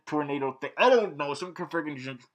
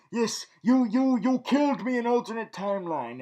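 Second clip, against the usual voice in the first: higher, accusing imitation; mock interrogation; 6 semitones higher than usual. Cisco confronting his killer from another timeline, mock accusing. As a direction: press the accusation with pretend outrage. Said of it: "he's like interrogating him".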